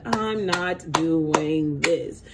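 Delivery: very slow, drawn-out refusal; dragged-out, deliberate "not doing it"; tired refusal. Acted. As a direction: stretch every word in weary defiance. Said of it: "how have you just been tired".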